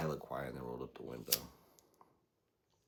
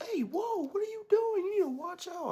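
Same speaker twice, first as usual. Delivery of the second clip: very high, loud squeaky parody; mock shrill driver; 10 dB louder than usual. Mocking the driver yelling at him, shrill and loud. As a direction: screech it like the panicked driver. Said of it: "He was like".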